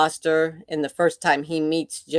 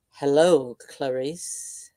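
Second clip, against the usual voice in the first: scary voice; 2 semitones lower, slower than usual. Retold or imitated. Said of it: "in a scary voice".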